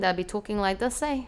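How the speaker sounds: lazy New Zealand bro accent. Shown as a demonstration. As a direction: talk like a Kiwi gangster-film character. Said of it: "We call it the bro accent".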